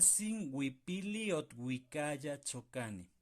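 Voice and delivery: huipili, ot, huicaya, chocane despacio y separadas; sílabas lentas. Shown as a demonstration. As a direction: marca cada sílaba con calma. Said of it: "Para poder cantar bien". (despacio, sílaba por sílaba)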